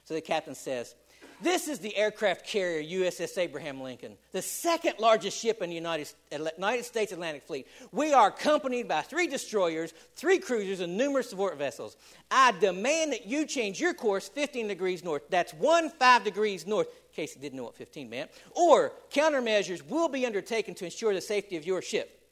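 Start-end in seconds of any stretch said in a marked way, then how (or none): 1.4-15.2 louder blustering captain; hammed-up rank-pulling boast; bragging naval captain, lightly angry; pompous mock fury. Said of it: "this made him really mad". 18.6-22.3 louder blustering captain; hammed-up rank-pulling boast; bragging naval captain, lightly angry; pompous mock fury. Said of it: "this made him really mad".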